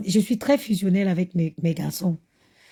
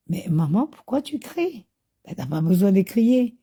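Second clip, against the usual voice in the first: imitated child, serenely puzzled by mother; unbothered kid reasoning with Mum, imitated; impossibly calm. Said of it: "Dans un calme pas possible".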